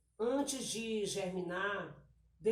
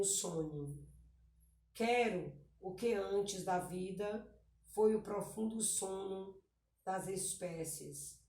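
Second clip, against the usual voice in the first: poem reading. Acted. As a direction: read the verses gently, slowing down at the close. Reads poem aloud.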